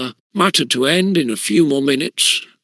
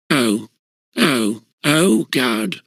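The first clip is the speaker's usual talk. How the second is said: yelled in pain; 2 semitones lower, slower than usual. A narrator's reading. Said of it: "yelled Wingate".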